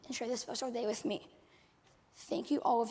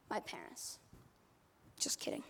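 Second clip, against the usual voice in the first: mock hushed dread; 10 dB quieter than usual. Mock dread before parents.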